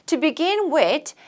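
slow choral model read; reading together with class. Shown as a demonstration. Teacher leading students in unison, slow read. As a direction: lead the class through the line slowly. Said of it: "시작".

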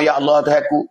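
earnest, repeated pleading to God; acted child's prayer. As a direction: plead for dead parents at their grave. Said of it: "Dia pergi berdoa". (doa anak yang merayu)

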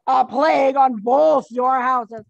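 dying curse, played up. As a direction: spit the curse out slowly as a dying man. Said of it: "Mercutio says".

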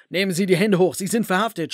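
loud police command, voice pushed on the first words; shouted. Acted. Police officer storming the office, shouting at the suspect. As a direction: bark it out like an arresting officer. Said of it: "schrie einer von ihnen".

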